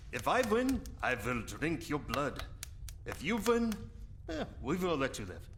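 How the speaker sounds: high, put-on villain voice with cackle; menacing vampire. Vampire explaining deadly card game rules to Hans, gloating. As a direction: gloat over the stakes.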